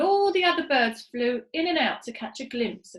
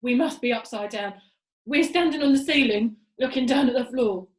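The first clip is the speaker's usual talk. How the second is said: alarmed Mister Twit; 7 dB louder than usual. Acted. Mister Twit panics upside down.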